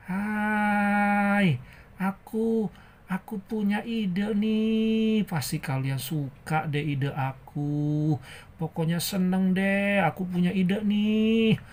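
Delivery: playful, drawn-out hello; cheerful character with an idea. Acted. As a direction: announce it eagerly, stretching the endings.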